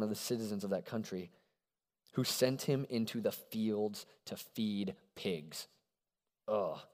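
measured Bible story reading; scripture reading. Acted. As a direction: read the parable with weight.

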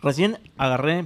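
talking with a full mouth; words around a candy. Real, not acted. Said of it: "perdón que hable con la boca llena".

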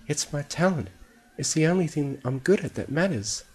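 high, small, upset voice; high-pitched hurt character voice; despairing. A narrator's reading. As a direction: plead high, near tears. Fluttershy despairs to old pony.

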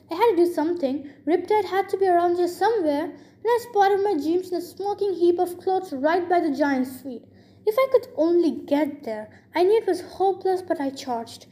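animated read-aloud storytelling; story narration. A narrator's reading. Reader tells of the hero charging the giant, story narration. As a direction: narrate the action with lively emphasis.

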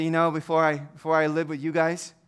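soft, low, heavy with loss; hushed lament of a man who lost everything; sorrowful leper plea. Pretend. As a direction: speak as a grieving outcast, quietly. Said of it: "and I would say".

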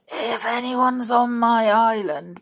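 slow, stressed on "on", rising; tense start of a threat; angry threat held back; fierce and angry. Acted. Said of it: "looking very fierce and angry".

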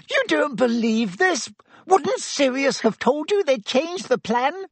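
high, whining, desperate rat-man; squeaky pleading Pettigrew. Acted. Pettigrew begging his old friend Sirius, high whining plea. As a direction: beg like a cornered coward, high and thin.

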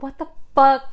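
baffled outburst. Retold or imitated. Acting out a character's baffled thought for a friend, mock baffled outburst. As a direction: blurt it as an imitated baffled reaction.

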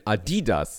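Adidas with the middle DI stressed. Retold or imitated. Host mimics how his friend says it, Adidas stressed on DI. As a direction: lean on the second syllable, a-DI-das. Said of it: "Wie sagst du denn?".

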